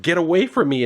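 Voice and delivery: high, alarmed retold cry; mock alarm. Astro as a giant bug jumps at him, mock panic. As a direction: act out a mild panicked yelp.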